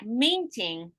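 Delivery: "meeting" with a long EE, stressed first; long stressed vowel. Shown as a demonstration. Teacher showing vowel length, long EE in "meeting". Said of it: "we keep it long".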